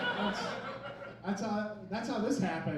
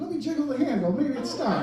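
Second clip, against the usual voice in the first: timid soldier; 4 semitones higher, 4 dB louder, faster than usual. Retold or imitated. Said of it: "And I'd be like".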